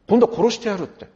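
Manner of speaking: 「殺してやる」を高く大きく脅すように. Retold or imitated. Escalating revenge quotes. (復讐がエスカレートする脅しを大声で)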